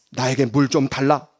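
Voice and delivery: low, gentle request; warm request. Acted. Jesus asking the woman for some water, warm. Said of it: "너무나 따뜻한 말입니다".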